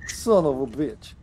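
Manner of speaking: put-on slow, heavy Russian accent. Player joking Kevin line in Russian accent. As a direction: lean into a mock Russian accent. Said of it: "Russian accent would be really cool".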